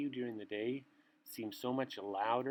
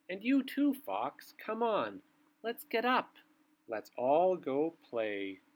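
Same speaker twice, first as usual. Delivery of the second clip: loud, lively wake-up calls; calling out; 5 dB louder than usual. Acted. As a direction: rouse the sleepy animals to come play. Night calling animals to wake.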